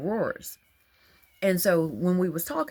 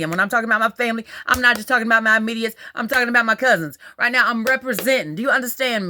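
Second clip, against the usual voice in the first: worked up; 4 dB louder, faster than usual. Real, not acted. Fired up about family.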